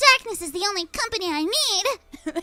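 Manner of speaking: weird, dainty little princess voice, "need" drawn out. Recalling how they sounded back then, in a weird little princess voice. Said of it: "like a weird little princess voice".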